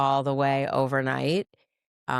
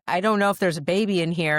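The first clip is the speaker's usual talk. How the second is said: panicked quote; 4 semitones higher, 3 dB louder, faster than usual. Retold or imitated. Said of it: "and I said".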